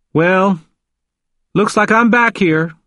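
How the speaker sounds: resigned, high-pitched character voice; heavy sigh. A narrator's reading. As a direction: say it with weary resignation. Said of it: "he said with a heavy sigh".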